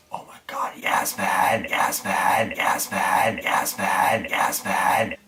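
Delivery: breathless whispered repeats of a name; whispering a crush's name across the room. Retold or imitated. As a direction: whisper her name over and over, starstruck. Whispering her name, star-struck.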